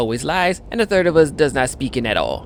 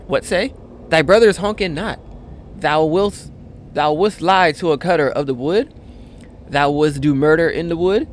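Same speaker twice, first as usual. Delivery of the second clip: mock indignant cutter; 3 semitones higher than usual. Cutter confronts liar in game.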